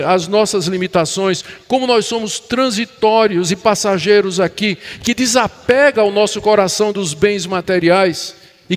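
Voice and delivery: insistent, building sermon list; preaching. Real, not acted. Pastor on being broken every day, insistent preaching. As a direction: press each point home to the congregation.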